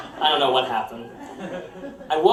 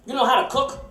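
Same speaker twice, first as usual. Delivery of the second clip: boss voice; 8 semitones higher, faster than usual. Retold or imitated.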